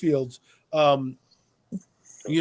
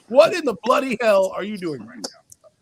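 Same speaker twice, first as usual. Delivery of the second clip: British-accented mock outrage; 4 dB louder than usual. Owner confronting the coach, in a put-on British accent. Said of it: "He gets in his British accent".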